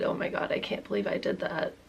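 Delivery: soft unvoiced, horrified; hushed disbelief. Confessing her slip to friends, a hushed whisper. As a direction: breathe it out to friends. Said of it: "couldn't help it and said".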